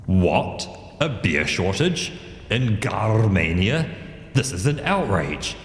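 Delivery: indignant royal proclamation; rising royal outrage, a touch theatrical; outraged king. Acted. King outraged by beer shortage.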